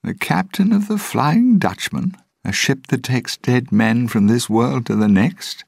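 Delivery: high, loud mocking incredulity; loud, derisive disbelief without real laughter; laughing scorn. A narrator's reading. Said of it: "Norrington laughed".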